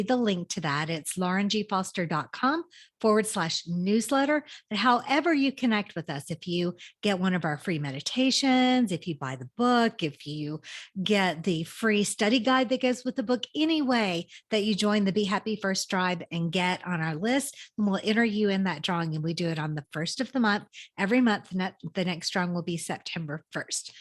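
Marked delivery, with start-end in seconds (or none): none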